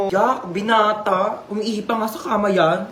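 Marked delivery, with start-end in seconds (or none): 0.1-1.5 mocking drawl. Mocking son.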